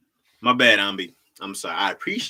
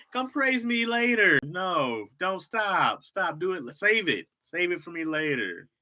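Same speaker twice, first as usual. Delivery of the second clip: high, swooping coy protest; singsong fake bashfulness; mock-modest; 7 semitones higher than usual. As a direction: wave off praise while clearly enjoying it. Continues coy act refusing praise.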